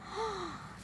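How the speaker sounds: soft high gasp; quick hushed intake of breath. Real, not acted. Owner to cat at treat time, gasping.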